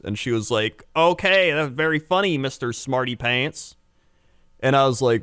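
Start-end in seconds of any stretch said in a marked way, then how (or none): 0.9-3.7 lightly voiced huffy woman, starting high; offended woman customer. Customer who thinks clerk is sarcastic, mock huffy. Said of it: "this other woman comes in. She's like".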